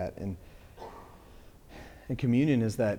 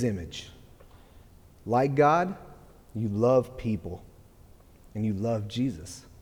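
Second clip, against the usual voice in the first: slow, louder, emotional letter reading; holding back tears; 5 dB louder than usual. Real, not acted. Father reading a birthday letter to his daughter, holding back tears. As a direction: read it fighting not to cry. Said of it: "I'm gonna try to make it through this without crying".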